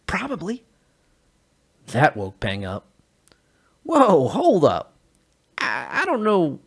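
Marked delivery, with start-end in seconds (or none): 3.8-6.6 higher, louder, startled; alarmed. Acted. Peng startled by the news, high alarmed voice. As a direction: jolt awake in panic.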